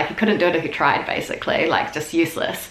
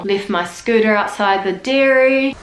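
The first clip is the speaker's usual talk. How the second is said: Kiwi quote; 4 semitones higher, 3 dB louder than usual. Retold or imitated. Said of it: "insert the clip here".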